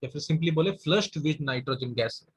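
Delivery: dictating with long gaps between words; slow dictation. Shown as a demonstration. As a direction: give each word time to be written. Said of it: "dictating notes with long pauses". (रुक-रुककर लिखवाते हुए)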